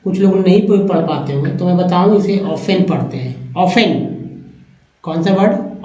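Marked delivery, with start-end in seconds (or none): 2.4-3.9 ऑफेन with a clear f, taught slowly; teacher models ऑफेन as aw-fen, t silent; saying often. Shown as a demonstration. Teacher to students: pronounce ऑफेन as aw-fen, t silent. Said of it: "ऑफेन उच्चारण करते हैं".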